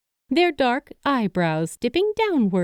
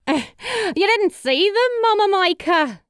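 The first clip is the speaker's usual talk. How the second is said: quipping with a grin; 11 semitones higher, 3 dB louder than usual. A narrator's reading. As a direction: tease her with a grin. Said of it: "Abby quipped with a grin".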